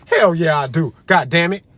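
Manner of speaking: loud, punchy insistence; indignant and forceful; emphatic outburst. Real, not acted. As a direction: burst out with loud conviction. Emphatic outburst answering the doubters.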